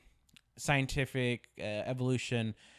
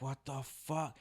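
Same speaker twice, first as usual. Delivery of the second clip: hushed, lowered inner reaction; stunned muttering; 9 dB quieter, slower than usual. Retold or imitated. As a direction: say it under your breath, dazed. Retold stunned reaction on waking.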